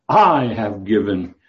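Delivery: "I" leaned on, then "have given" said slowly; slow reading that leans on "I"; emphatic I. Shown as a demonstration. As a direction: press hard on "I" and let the rest come slow. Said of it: "Because it's emphatic".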